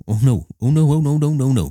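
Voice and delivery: high, rising no's; playful refusal. Retold or imitated. Husband refusing his wife's hand, high and rising. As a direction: fend off comfort playfully. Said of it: "I was like".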